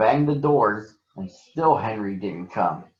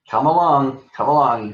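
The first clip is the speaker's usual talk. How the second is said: fussy, hurried urging; impatient little engine fussing over coaches; 4 semitones higher, 5 dB louder than usual. A narrator's reading. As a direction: hurry them along, fussing. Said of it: "he fussed".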